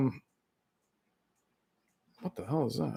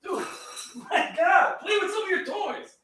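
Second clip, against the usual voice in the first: talking to the cat; 8 dB quieter than usual. Real, not acted. Speaking to his cat.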